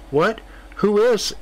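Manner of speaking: high, startled question; shocked. Acted. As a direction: ask in shock. Shocked at the cards moving.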